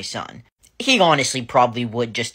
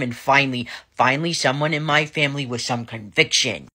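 mock dramatic; 3 semitones higher than usual. Real, not acted. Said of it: "I'm just kidding".

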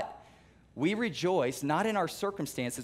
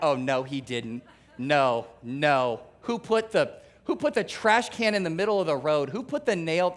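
mock angry rant. Churchgoer with a flat tire, mock angry rant. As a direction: sputter like a driver finding a nail in the road.

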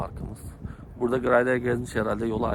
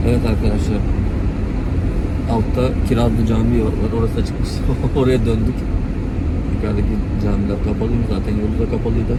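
fuzz distortion; 5 dB louder than usual. Real, not acted. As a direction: voice distorted by loud fan noise. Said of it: "fandan dolayı sesimiz bozuk geliyor".

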